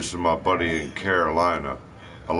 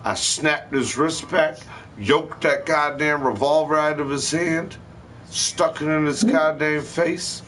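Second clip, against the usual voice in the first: higher, building, rapid-fire storytelling; excited retelling; 6 semitones higher than usual. Real, not acted. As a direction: tell it like you're reliving the adrenaline. Excited retelling of disarming robber.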